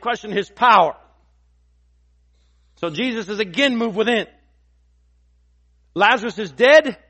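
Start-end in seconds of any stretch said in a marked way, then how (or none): 5.9-7.0 doubters' despair. Retold or imitated.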